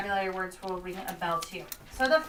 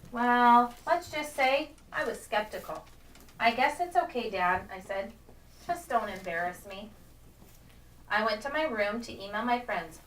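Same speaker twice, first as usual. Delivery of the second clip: expressive, measured storybook narration; story read-aloud. A narrator's reading. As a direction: read it to a class as the girl telling her story.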